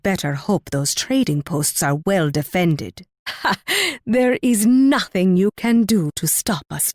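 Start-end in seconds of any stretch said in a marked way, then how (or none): 3.3-3.6 single gloating "ha"; one short, triumphant scoff of laughter; scornful laugh. Acted. Leader mocking a rival's defended trading posts, scornful laugh.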